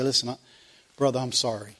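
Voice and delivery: offended friend hears a mumbled sorry, quiet; quiet mumbled apology. Retold or imitated. Acting a half-hearted apology.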